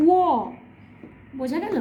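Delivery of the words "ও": অন্তস্থ ব said as a rounded glide ও, like w; sound for অন্তস্থ ব. Shown as a demonstration. Teacher demonstrating অন্তস্থ ব as w. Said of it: "আর এই বয়ের উচ্চারণ হচ্ছে".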